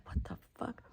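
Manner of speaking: breathy unvoiced what the fuck; a shocked whisper; whispered reaction. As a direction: whisper it like a baffled bystander. Imagined onlookers react.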